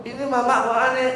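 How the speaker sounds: high, quick mocking kid voice; impatient child. Child teaching mother, high quick mocking voice. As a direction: tease mama like a fed-up child. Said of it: "Ngajarin kita".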